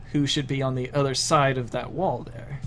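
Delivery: choppy garbled internet audio; bad connection. Real, not acted. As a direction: voice breaking up digitally. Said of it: "Your voice cut out really bad".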